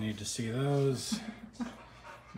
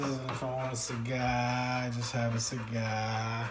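put-on Boston accent, dropping the r in cigar. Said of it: "Why are you talking like you're from Boston?".

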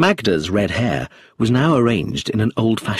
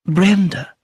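high, loud, dignified name; with dignity; 11 semitones higher, 5 dB louder than usual. A narrator's reading. Actress defending Brenda to inspector, dignified. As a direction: lift the name with poised dignity. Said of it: "she said with dignity".

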